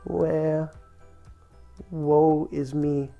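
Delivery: mild wail. Acted. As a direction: draw out a gentle storybook lament. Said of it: "wailed the little duck".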